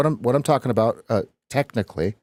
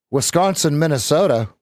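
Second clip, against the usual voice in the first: put-on light Valley girl voice; 3 semitones higher than usual. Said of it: "Who was the Valley girl last week?".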